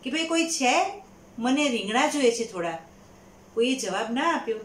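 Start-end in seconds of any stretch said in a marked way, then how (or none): 0.1-2.8 calling out. Acted. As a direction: call out to see if anyone's there. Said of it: "એમણે બૂમ પાડી".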